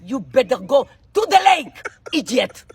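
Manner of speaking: drawn-out, slow indignant rebuff; hammed-up scolding, stretching the key words; theatrical telling-off. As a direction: act out sending a pest packing. Acted telling-off of the man.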